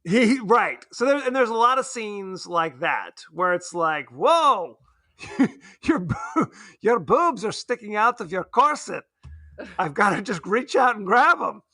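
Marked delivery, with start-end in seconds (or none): 4.1-11.6 lightly put-on, slipping Polish accent as Roman Polanski; a hint of a hammed-up Polish accent that keeps fading; mock Polish accent. Mocking the director in a fading mock Polish accent. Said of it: "I'm losing the accent".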